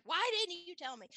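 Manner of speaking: high-pitched imitated indignation; mock protest. Friend protesting the kept secret, mock indignant. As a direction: playfully protest at being left out.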